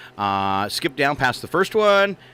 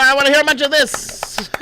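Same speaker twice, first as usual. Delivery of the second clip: mock excited; 11 semitones higher, 5 dB louder than usual. Host demands a greeting.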